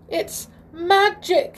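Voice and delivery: high, loud, horrified gasp. A narrator's reading. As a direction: gasp it out in shock. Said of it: "he gasped".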